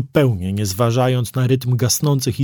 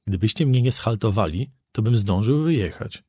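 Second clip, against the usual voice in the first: trying it nicely. Acted. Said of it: "spróbowałem po dobroci".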